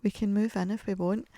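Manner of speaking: whispered like a thrilling secret; excited whisper. Real, not acted. Telling listeners she can move in, excited whisper. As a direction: let the good news slip out in a hush. Sharing house news.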